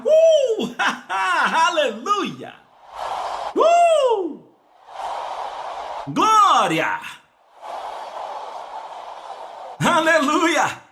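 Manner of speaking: long high cries, whoops and a laugh; ecstatic, high hallelujah cries; exultant praise shouting. Acted. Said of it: "você vai dizer".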